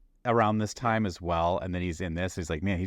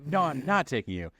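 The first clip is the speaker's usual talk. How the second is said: higher-pitched mock panic; freaked-out refusal; 6 semitones higher than usual. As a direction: refuse like a pilot freaking out, half-acted. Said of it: "the guy freaks out".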